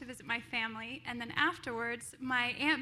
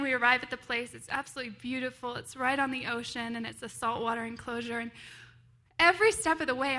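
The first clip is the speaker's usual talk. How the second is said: ordinary talk, nothing marked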